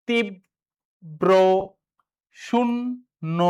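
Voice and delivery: তীব্র and শূন্য very slow, syllables split; options read out. Shown as a demonstration. Teacher reading quiz options to students, slow split syllables. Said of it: "কোনটি শুদ্ধ উচ্চারণ".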